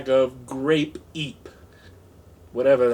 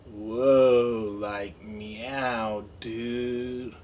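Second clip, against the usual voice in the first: stoned cat voice; 4 semitones lower, much slower than usual. Retold or imitated. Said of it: "Mister P walking through the set like".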